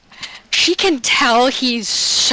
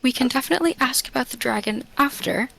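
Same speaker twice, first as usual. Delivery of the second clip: put-on scolding a child; 5 dB quieter, faster than usual. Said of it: "like when you're scolding a child".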